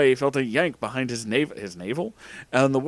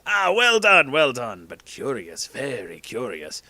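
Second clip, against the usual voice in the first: Ollivander intrigued; 3 dB louder, slower than usual. A narrator's reading. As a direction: start loud and pleased, sink to a slow murmur. Ollivander delighted, then pondering.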